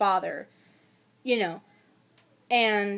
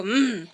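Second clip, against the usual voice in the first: imitated wordless zombie moan; short mock zombie groan; zombie grunt; 2 semitones lower than usual. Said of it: "all the zombies go".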